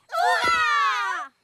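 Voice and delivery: high, loud joyful hurrah; excited cheer. Acted. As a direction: cheer like a thrilled child. Kids cheer going on holiday.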